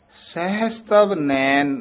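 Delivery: slow ਸਹਸ ਤਵ ਨੈਣ with a short pause after ਨੈਣ; slow, then halt briefly after ਨੈਣ; slight pause. Shown as a demonstration. Teacher marking a short halt for the student, slow. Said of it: "ਇੱਥੇ ਠਮਕ ਲਾ ਦੇਣੀ ਹੈ".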